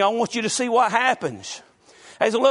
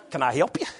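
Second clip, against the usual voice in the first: put-on Southern belle accent; 9 semitones lower, 3 dB quieter, faster than usual. Pastor imitating his wife's phone greeting in light Southern accent. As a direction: ask it in a sweet Southern belle voice. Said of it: "How did you say that?".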